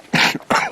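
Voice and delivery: sudden cough after swallowing a fly; coughing on a fly caught in the throat; just swallowed a bug. Real, not acted. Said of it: "I nearly swallowed a fly there".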